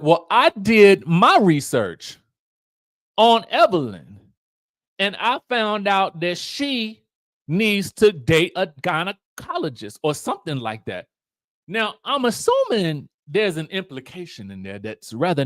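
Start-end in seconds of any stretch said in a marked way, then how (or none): 0.0-11.1 smug auntie dig. Retold or imitated. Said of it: "Auntie's like".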